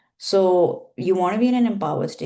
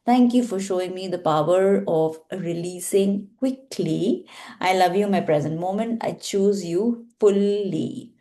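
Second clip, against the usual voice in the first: healing prayer. Acted. Leads a Ho'oponopono healing practice.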